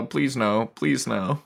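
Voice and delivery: lightly acted nervous begging; mock pleading. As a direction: plead in comic dread, drawn out. Acts out pleading with an alpha.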